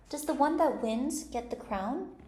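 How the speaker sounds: panting from running; breathless after a run; out of breath. A narrator's reading. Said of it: "putting her quite out of breath".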